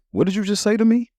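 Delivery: put-on a riled-up boy daring his brother; older brother squaring up, high and indignant; kid challenge.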